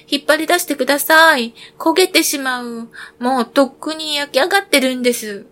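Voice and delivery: urgent bread voice, rising alarm; crying out. Acted. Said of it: "パンが叫びました".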